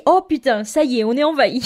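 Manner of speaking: mock zombie panic. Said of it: "tu dis".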